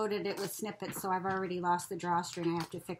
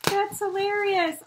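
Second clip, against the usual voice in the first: laughing; 9 semitones higher, 6 dB louder than usual. Real, not acted. Laughing at funny ruler.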